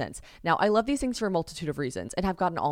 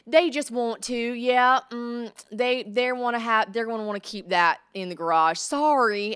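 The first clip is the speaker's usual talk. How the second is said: louder, sugary Southern "hun" voice; Southern landlady; 4 semitones higher, 5 dB louder, slower than usual. Retold or imitated. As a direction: sweet-talk the bad news, Southern style. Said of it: "like these ornery Southern women".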